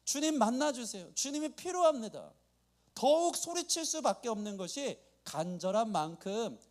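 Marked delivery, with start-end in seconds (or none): 0.0-2.3 urgent plea, pitched slightly up; acted anguished prayer. Believer beating the chest in prayer, mildly anguished plea. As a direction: pray as if it bursts out. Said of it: "마음이 답답해서 가슴을 치면서".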